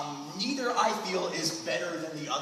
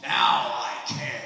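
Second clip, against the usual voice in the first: deadpan; 8 semitones lower, 4 dB louder, much slower than usual. Pretend. Deadpan punchline after the backstory.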